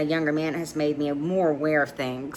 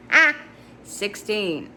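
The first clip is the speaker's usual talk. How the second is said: laughing; 6 semitones higher, 5 dB louder, slower than usual. Real, not acted. Reader breaks into laughter.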